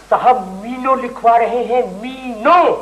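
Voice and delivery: "मीनो" picked out clearly and repeated alone; stressed correction. Acted. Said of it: "मसाइल नहीं". ("मीनो" पर ज़ोर देकर दोहराना)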